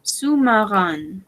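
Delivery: "sous-marin" ending in a nasal an, said slowly. Shown as a demonstration. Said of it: "Recordemos sonido nasal, A N".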